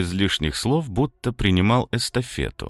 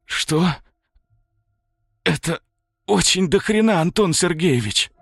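high pained words through clenched teeth; through clenched jaw; 10 semitones higher than usual. A narrator's reading. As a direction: force it through a locked jaw. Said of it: "практически не разжимая челюсти от боли".

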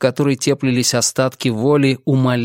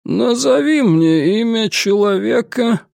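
stern inquisitor; 7 semitones higher than usual. Acted. Inquisitor interrogates.

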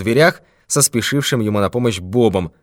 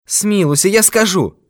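much higher, quick frightened pleading; pleading old man; 9 semitones higher than usual. Acted. Old miser begs the thief for mercy, pleading. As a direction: beg him to believe it was a joke.

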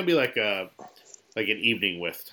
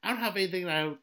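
wrestling promo; 4 dB louder than usual. Pretend. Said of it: "Let me cut a WrestleMania promo on you".

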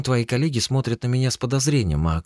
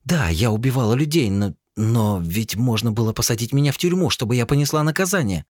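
higher and louder, choked anger; tearful fury; 10 semitones higher, 4 dB louder than usual. Acted. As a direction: rage through tears at her brother. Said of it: "разрыдалась и в бессильной злобе".

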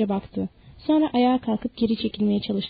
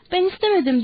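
distressed cry; 8 semitones higher than usual. A narrator's reading. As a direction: protest pleadingly in a high voice. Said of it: "diye bağırdı Danny". (tiz sesle, üzgün itiraz)

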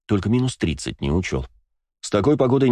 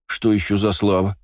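ревниво; 3 semitones higher than usual. Acted. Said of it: "ревниво спросил Астарот".

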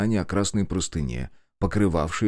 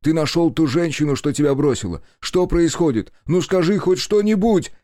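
rising to a high, loud desperate yell; 6 semitones higher, 4 dB louder than usual. A narrator's reading. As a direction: shake the answer out of him. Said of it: "кричал Кику".

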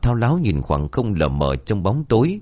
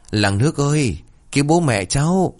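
higher, urgent cry for help; calling for help; 6 semitones higher than usual. A narrator's reading. Son finds his parents collapsed and cries to the village for help. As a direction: call out to the neighbours in panic. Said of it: "vội vàng chi hô".

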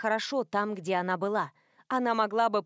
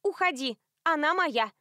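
put-on higher, louder drunken shoo; tipsy shout; 6 semitones higher, 3 dB louder than usual. A narrator's reading. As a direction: chase him off loudly. Stevie shouting at the man.

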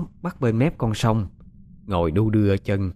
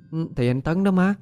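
dreamy daughter; 5 semitones higher than usual. Acted. Possessed daughter answers mother.

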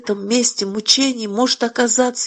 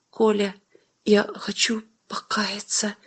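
hushed confession; 6 dB quieter than usual. A narrator's reading. Mother confessing to her son, whispered. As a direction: breathe it out, half ashamed.

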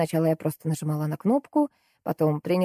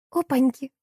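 high, delighted exclamation; gleeful; 8 semitones higher than usual. A narrator's reading. Salesgirl rejoices at her husband's trouble, gleeful. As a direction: crow at his trouble. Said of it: "обрадовалась девчонка".

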